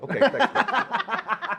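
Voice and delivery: high, very slow, dragged-out deadpan thanks; sarcastic thanks. Retold or imitated. A player answers the coach who pulled him, in slow, high sarcasm.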